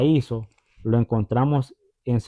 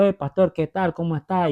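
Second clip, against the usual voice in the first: bright high cheerful greeting, higher; alegre; 5 semitones higher than usual. Retold or imitated. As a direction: greet the pastor joyfully, higher pitch. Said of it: "ella bien alegre, gozosa". (saludo alegre y agudo)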